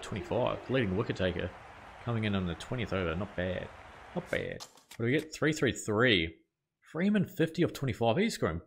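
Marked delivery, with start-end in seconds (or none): 4.1-4.6 mock deep voice. Gamer repeating his verdict on the over, mock deep. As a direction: drop way low for a mock gruff "Not bad.".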